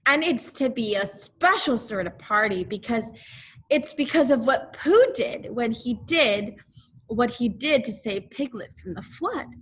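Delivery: put-on boy telling Owl about a party; eager boy. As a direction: rush out the happy news. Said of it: "Christopher Robin speaking".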